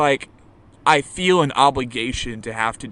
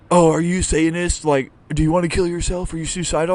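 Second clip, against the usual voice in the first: higher, louder imitation of nosy questioning; mock accusing questioner; 4 semitones higher, 4 dB louder than usual. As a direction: mimic someone prying, pitched up. Mimics judgy metalhead questioners.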